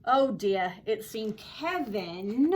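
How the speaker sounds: story read with an attempted Australian accent; lively storyteller trying an Australian accent. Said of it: "my attempt at an Australian accent".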